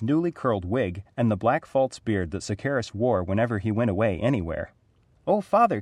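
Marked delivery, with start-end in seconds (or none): 5.3-5.8 high, bright-eyed call to father; a boy's eager outburst; excited cry. A narrator's reading. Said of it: "Kaif cried".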